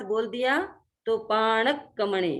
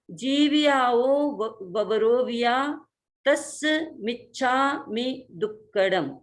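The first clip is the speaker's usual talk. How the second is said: careful recitation. Shown as a demonstration. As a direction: recite each word carefully. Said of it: "ये शुद्ध उच्चारण की हमने कोशिश की".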